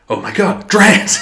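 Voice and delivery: high-pitched hammed-up exclamation; mock astonishment. Podcaster acting out Rob Schneider's reaction, mock astonished. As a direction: jump up in pitch on the name, mock shocked.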